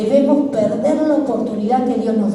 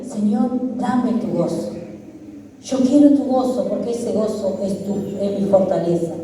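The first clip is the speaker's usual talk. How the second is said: prayerful plea; 3 semitones lower than usual. Shown as a demonstration. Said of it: "Así que en este día decile".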